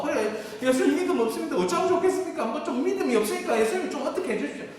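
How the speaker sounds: quick, head-down mock confession; sheepish confession. Scolded disciple admitting no faith, quick and sheepish.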